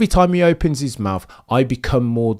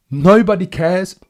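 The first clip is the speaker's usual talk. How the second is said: mocking repeat; 5 semitones higher, 4 dB louder than usual. Real, not acted. Repeats line louder.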